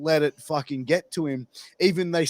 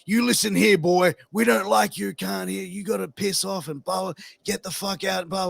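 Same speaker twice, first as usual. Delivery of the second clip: Klansman snarling threats down the phone, pitched up; menacing Klansman on phone; 5 semitones higher than usual. Retold or imitated. Klansman threatens the preacher on the phone, mock snarl. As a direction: play a hostile caller barking at him. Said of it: "I phoned him up and said".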